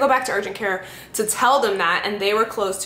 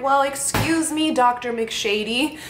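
sassy; 6 semitones higher, slower than usual. Retold or imitated. Sassy retort to absent doctor.

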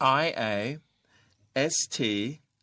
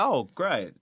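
enthusiastic; 2 semitones higher than usual. Acted. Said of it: "That is enthusiastic".

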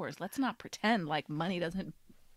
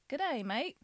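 higher-pitched Australian accent attempt; 5 semitones higher than usual. Shown as a demonstration. Taking a turn after the cohost, attempted Australian accent. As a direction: have a go at an Australian accent, lifting at the end. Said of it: "Okay, you try".

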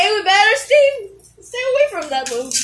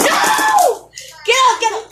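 very high shouted no; dismayed yell; 8 semitones higher than usual. Real, not acted. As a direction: scream it in despair. Top about to lose.

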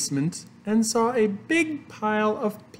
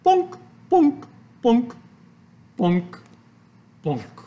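plunking noises; 5 semitones higher, 5 dB louder, slower than usual. A narrator's reading. Sound effects of dropping raisins.

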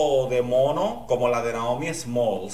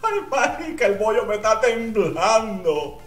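nervous excitement; 6 semitones higher, 3 dB louder than usual. Real, not acted. Nervous shriek at next contestant.

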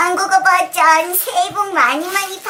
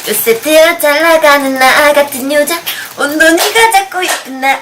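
squeaky helium-balloon voice; 6 dB louder, faster than usual. Real, not acted. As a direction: sing through a lungful of helium. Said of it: "풍선을 하나씩 들이마시고".

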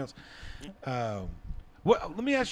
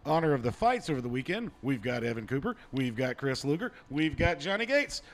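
announcer. Acted. Host presenting the panel in honor of the fights, announcer voice. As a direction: ring announcer introducing the fighters. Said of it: "I'm doing my best announcer voice".

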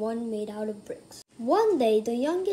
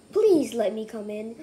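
sweetly; 2 semitones lower, 4 dB louder than usual. Acted.

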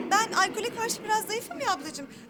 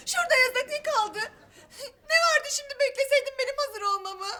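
tearful reproach; 2 semitones higher than usual. Acted. Crying reproach to fiancé.

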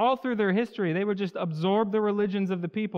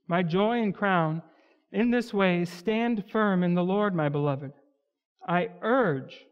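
scripture reading. Acted. Reads Philippians passage aloud.

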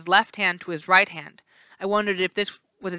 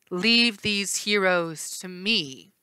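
commanding; much slower than usual. Acted. Hera repeats.

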